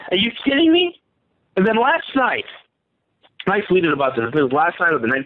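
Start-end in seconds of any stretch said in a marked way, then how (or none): 0.1-1.0 pitched up high, incredulous; hammed-up outraged disbelief; mock disbelief. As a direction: imitate someone who can't believe the news. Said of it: "The U S is like".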